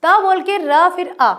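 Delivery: त, र, अ sounded one by one, slowly; teacher slowly building त्र from its sounds. Shown as a demonstration. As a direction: break त्र into त, then र, then अ. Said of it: "त्र में हमने कैसे उच्चारित करा".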